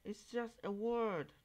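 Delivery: a high mock "chill out, man"; mock dismissive. Mimicking people brushing off their own slurs, high and dismissive.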